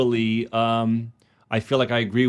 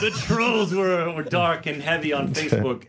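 grizzled sea captain; 4 semitones higher than usual. Pretend. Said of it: "Sound like a grizzled sea captain".

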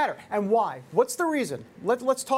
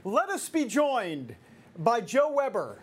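slow, stately olde-English phrasing; host mocking the stiff phrase, slow and stately; mock old-fashioned formality; slower than usual. Shown as a demonstration. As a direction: announce it like a herald of 1782 England. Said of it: "seventeen eighty-two England".

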